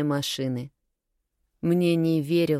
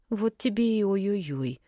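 higher, teasing mimicry of a lament; mocking echo; 4 semitones higher than usual. A narrator's reading. Narrator throws friend's lament back at her, mockingly. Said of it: "передразнила я подругу".

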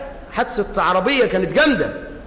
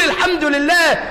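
called-out praise; 4 semitones higher than usual. Shown as a demonstration. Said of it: "قول".

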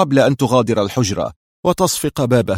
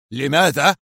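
higher-pitched, mildly angry question; indignant anger; 4 semitones higher than usual. A narrator's reading. Mister X rebuking Kruger's question, indignant anger. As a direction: echo it in disapproval. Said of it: "في غضب هادر مستنكر".

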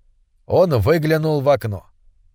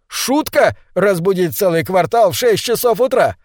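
outraged; 5 semitones higher than usual. Acted. Husband outraged at the joke.

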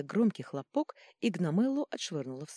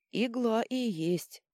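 slow, higher grumble; grumbling; 7 semitones higher, much slower than usual. A narrator's reading. Drobush grumbling about the needle. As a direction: grumble it under your breath. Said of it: "заворчал Дробуш".

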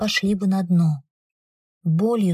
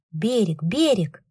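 usual speaking voice

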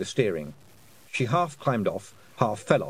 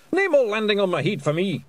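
Scottish Feegle voice; 9 semitones higher, 5 dB louder than usual. Acted. Feegle voice for Hamish.

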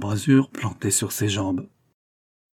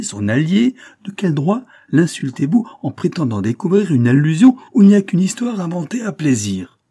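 indignant retort; 4 semitones higher, 5 dB louder than usual. Acted.

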